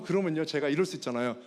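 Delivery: usual speaking voice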